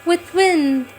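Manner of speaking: lifted, spaced-out poem reading with a pause at each line; poem recitation. Acted. Reciting Aurobindo's poem to devotees, a lifted poetic recitation. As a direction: recite it like a hymn to the hills.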